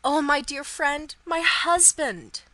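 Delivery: loud, high, drawn-out plea; distraught, pleading wail of words; imploring. A narrator's reading. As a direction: cry out for help, slowly and desperately. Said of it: "she panted out in his arms imploringly".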